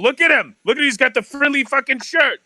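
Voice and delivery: high, exasperated complaint building to a shout; mock outrage. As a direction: wail about the villain, hammed up. Acting out outrage at villain.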